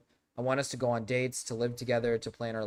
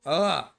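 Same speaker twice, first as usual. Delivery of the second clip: frustrated groan; 4 semitones higher, 6 dB louder than usual. Real, not acted. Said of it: "I'm losing my voice here".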